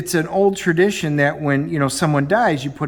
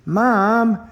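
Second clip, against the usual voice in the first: mortified "Mom"; 6 semitones higher than usual. Retold or imitated. Embarrassed daughter protests mother.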